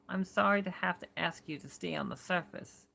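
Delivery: put-on Warren in a New York accent, lightly done; a light Brooklyn voice, calm and steady. Narrator voicing Warren to Carter in a mild New York accent. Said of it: "let's try New York".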